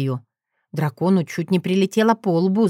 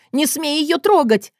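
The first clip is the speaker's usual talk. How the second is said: higher-pitched outraged cry; indignant cry; 8 semitones higher than usual. A narrator's reading. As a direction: cry out to defend your sister. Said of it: "возопила уже я". (возмущённый возглас)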